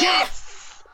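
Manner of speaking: high, loud cheer; real fan's shriek; excited scream. Real, not acted. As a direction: echo the celebration at full pitch. Reacting live to a shootout save.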